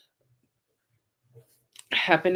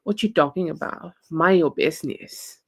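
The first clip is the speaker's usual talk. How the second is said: put-on dismissive man in a shaky Texas accent; badly done Texas accent, full of attitude; attempted Texas accent. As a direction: brush them off in an amateur Texan accent. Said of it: "I'm very bad with this accent".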